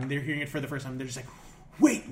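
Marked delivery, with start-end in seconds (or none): 1.8-2.0 high, loud incredulous "what?", rising sharply; mock shocked reaction. Friends at the table hearing it for the first time, shocked. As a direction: imitate stunned friends, voice leaping upward.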